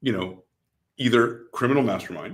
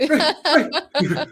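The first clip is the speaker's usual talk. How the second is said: laughing; 4 dB louder than usual. Real, not acted. Still laughing at the bit.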